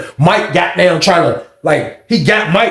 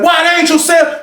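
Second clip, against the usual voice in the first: retold shout; 11 semitones higher than usual. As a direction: bark it at the inmate. CO shouting question.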